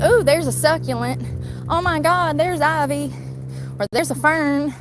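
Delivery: mock delight, spotting a succulent; excited finds. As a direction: squeal at each roadside plant. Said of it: "I'm like".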